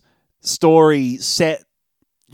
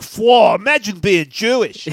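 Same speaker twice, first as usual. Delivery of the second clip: mock awe; 5 semitones higher, 3 dB louder than usual. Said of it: "So I must be like".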